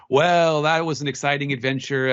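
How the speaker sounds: TV announcer. Retold or imitated. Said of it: "an announcer who comes in and says".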